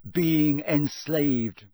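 high, loud, slow insistence. A narrator's reading. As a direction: hammer it home to someone not listening. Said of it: "said Ron loudly".

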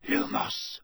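hushed spell-casting whisper. A narrator's reading. Harry opening the library door at night, whispered. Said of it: "Harry whispered".

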